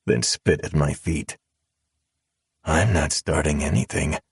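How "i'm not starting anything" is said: calm. Acted. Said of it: "I said calmly, apathetically".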